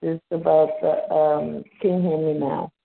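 muffled, hollow phone line; like talking from inside a tunnel; sounds like in a tunnel. Real, not acted. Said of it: "you sound like you're in a tunnel".

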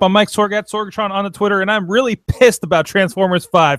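a talk show host welcoming listeners in announcer voice; announcer intro. Acted. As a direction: boom it out like a radio host. Radio show intro hype.

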